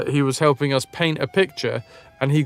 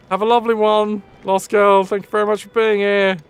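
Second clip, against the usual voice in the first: higher-pitched, sing-out goodbye; cheery farewell; 6 semitones higher, 4 dB louder than usual. Real, not acted. Streamer thanking departing viewer Lost Girl, cheery farewell. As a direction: send them off brightly with thanks.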